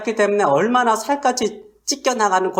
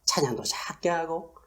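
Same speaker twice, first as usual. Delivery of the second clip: very soft, half-whispered bashful murmur; hushed mock embarrassment; mock timid hush; 3 semitones lower, 10 dB quieter than usual. Shown as a demonstration. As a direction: shrink the voice as if too shy to be heard. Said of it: "작게 한 게 아니라".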